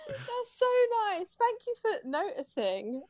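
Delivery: real, high-pitched flustered gratitude with laughter; overwhelmed by a compliment, laughing through it; touched, near tears. Real, not acted. Designer thanking interviewer for praise of her packaging, touched. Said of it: "you're gonna make me cry".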